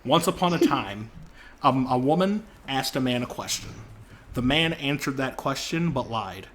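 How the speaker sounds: slow, deliberate fairy-tale telling; storyteller voice. Shown as a demonstration. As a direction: tell it like a bedtime fable, slowly. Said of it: "I will tell you the formula".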